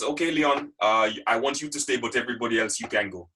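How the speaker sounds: imitating the boss's French accent. Boss dismissing the room but keeping Leon back, French accent. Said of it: "I'm gonna try and do a French accent now".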